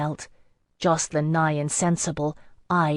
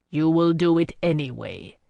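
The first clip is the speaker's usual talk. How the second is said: impassive. Acted. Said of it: "Selig said impassively".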